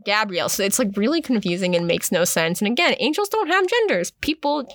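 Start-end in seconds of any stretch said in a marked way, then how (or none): 0.1-0.5 "Gabrielle" said the French way, ga-bree-ELL. Retold or imitated. The narrator retelling the name switch, saying Gabrielle the French way. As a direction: stress the last syllable of "Gabrielle". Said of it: "So she was like".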